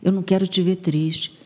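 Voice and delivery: gentle, affectionate encouragement; tender self-talk. Shown as a demonstration. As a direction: talk to yourself like a loving friend. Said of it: "você vai olhar pra você e vai falar".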